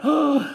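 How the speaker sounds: sharp intake, then a high "oh"; mock shocked gasp. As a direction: gasp as if playfully stung. Acts out being stung by wife.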